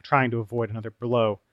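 ordinary delivery

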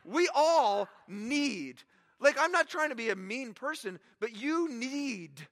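very slow, drawn-out words; preacher slowing right down on need; slow emphasis. Real, not acted. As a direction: stretch each word out to land it.

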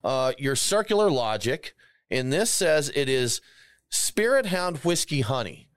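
talking between sips of beer; slow, words round a sip; while sipping a drink. Real, not acted. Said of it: "we're sipping right now".

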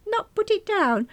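high, loud disbelieving echo; loud, incredulous comeback; indignant retort. Acted. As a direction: throw it back at her, affronted. Indignant retort to her friend.

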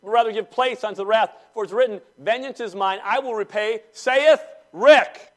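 loud, high King James delivery; reading scripture aloud. Retold or imitated. Pastor quoting Paul to the church, grandly. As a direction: proclaim it like old scripture. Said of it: "the Apostle Paul says".

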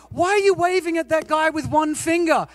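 imitating child. The goddaughter in the back seat, lightly voiced high. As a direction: ask it like a puzzled kid.

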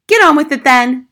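loud, high-pitched order; impatient mother. Acted. Mother to teacher delaying her program, impatient. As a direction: hurry the visitor testily.

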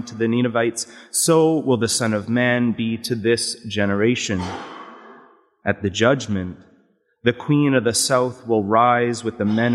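measured liturgical reading; Gospel proclamation. Acted. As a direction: deacon proclaiming the Gospel at Mass.

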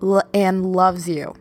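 slight stumble on the first sound; light real stutter; nervous stutter. Real, not acted. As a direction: trip briefly over the word, a little nervous. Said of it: "I'm stuttering 'cause you're making me nervous".

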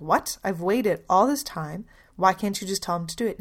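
loud, fast exasperated mother; exasperated outburst. Retold or imitated. Mother to Gandhi after days in line, loud exasperated protest. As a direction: blurt it out, fed up after waiting.

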